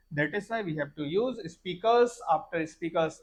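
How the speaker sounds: slowly reads out the wrong phrase; slow reading of the example. Shown as a demonstration. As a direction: read the wrong sentence slowly. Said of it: "नहीं क्या speaker after speaker". (धीरे पढ़ा गया उदाहरण)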